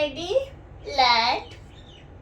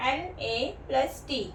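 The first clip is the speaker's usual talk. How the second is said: slow spelling; 5 dB quieter, slower than usual. Shown as a demonstration. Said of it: "पढ़ने की कोशिश कीजिए".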